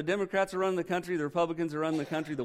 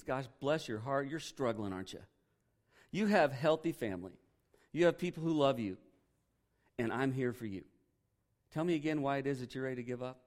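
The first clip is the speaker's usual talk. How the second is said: gentle mock sympathy; 3 semitones lower, 3 dB quieter than usual. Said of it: "He always gives me that".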